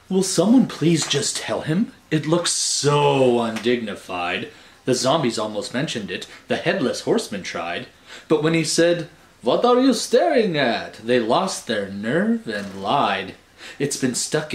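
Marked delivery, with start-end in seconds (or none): 0.1-9.1 lively rhyming poem read aloud. A narrator's reading. Reading a judgy poem to the kids, rhythmic recital. 9.4-11.0 defensive snap, higher and louder; touchy headless horseman. Acted. Horseman snapping at the staring monsters, mock touchy. 11.0-13.4 lively rhyming poem read aloud. A narrator's reading. Reading a judgy poem to the kids, rhythmic recital.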